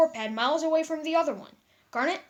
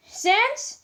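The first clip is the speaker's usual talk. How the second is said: calling out; 9 semitones higher, 6 dB louder than usual. Acted. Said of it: "Frisk called".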